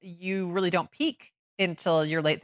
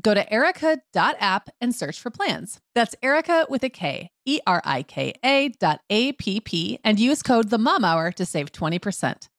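scripted promo with key details picked out; sponsor ad read; 3 semitones higher than usual. Acted. Host giving parents the promo code, ad read. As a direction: pitch the offer to listeners.

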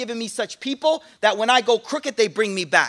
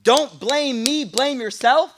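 mock incredulous quote; 2 semitones higher, slower than usual. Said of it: "you have the nerve to say to me".

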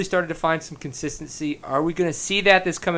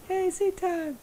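mock shout-out; 13 semitones higher, 8 dB quieter, slower than usual. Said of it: "we just want a little".

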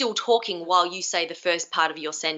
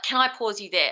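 calm, certain, falling finish; 2 semitones higher than usual. Shown as a demonstration. Coach showing the right, certain way to interrupt, certain. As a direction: say it with certainty, no doubt. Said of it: "be really certain about what you're doing".

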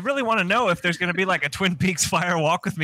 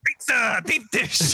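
put-on Chicago accent; 3 semitones higher, slower than usual. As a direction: say it like a Chicago local. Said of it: "random Chicago non sequiturs".

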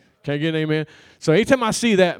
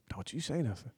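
wife's warning; 3 semitones lower, 14 dB quieter, faster than usual. Retold or imitated. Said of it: "She's like".

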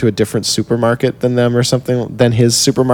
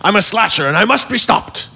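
higher, mock English accent villain; English accent impression; 9 semitones higher than usual. Podcaster teasing his cohost with a mock English accent. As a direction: ham up a silly English accent for the hosts. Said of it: "that's my impression of an English accent".

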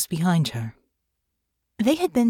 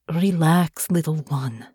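gently; slower than usual. Acted. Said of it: "she said gently".

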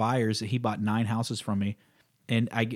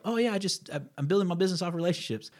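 mock claim; 7 semitones higher than usual. Mocking a blanket claim heard.

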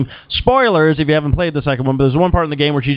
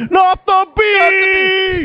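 very high, drawn-out panicked movie wail; mock terror, slow and high-pitched; Nicolas Cage; much slower than usual. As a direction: stretch it into a hammed-up falsetto scream. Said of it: "Nicolas Cage".

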